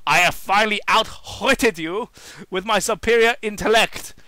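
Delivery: lightly hammed-up villain boast; gloating villain. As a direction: gloat like a cartoon mastermind. Villain gloats over Sonic.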